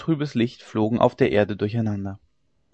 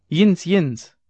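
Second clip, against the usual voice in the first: high, loud cry of distress; a dying woman's shriek for help; 5 semitones higher, 5 dB louder than usual. A narrator's reading. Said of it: "Und kreischend, wie ein Notschrei".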